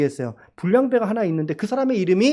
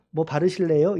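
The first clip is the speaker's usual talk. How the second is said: pun; 3 semitones lower than usual. Pretend. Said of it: "갑자기 뭐가 생각났어".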